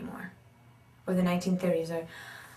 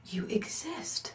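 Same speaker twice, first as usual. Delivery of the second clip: astonished whisper; 2 semitones higher, 9 dB quieter, slower than usual. Retold or imitated. Inner amazed thought while meeting him.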